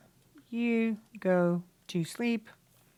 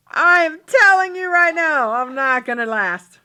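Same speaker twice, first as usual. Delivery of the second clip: louder, laughing through a tired complaint; laughing while voicing; 6 semitones higher, 8 dB louder than usual. Girlfriend saying she needs coffee, laughing as she voices it. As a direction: giggle through the lines.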